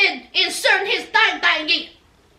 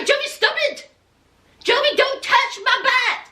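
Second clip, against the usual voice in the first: high, coy voice swatting him away; mock giggly girlfriend; 7 semitones higher than usual. Girlfriend teasing Jovi on the dance floor, coy and high. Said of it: "And she was like".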